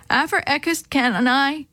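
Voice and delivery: mock garbled words, as if chewing mush; through a mouthful. A narrator's reading. Chris asks at breakfast with his mouth full, garbled. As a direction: mumble it round a full mouth of oatmeal. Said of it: "he tried to say through a mouthful of mush".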